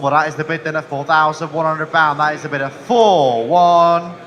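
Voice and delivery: loud rhythmic auctioneer calling; frantic trading floor shouting. Real, not acted. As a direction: hammer out the bids to the hall.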